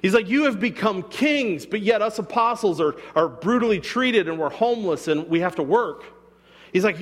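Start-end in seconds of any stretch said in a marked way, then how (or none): 0.3-6.0 sarcastic. Retold or imitated. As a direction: drag it out like fake flattery. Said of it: "He's be-, being sarcastic".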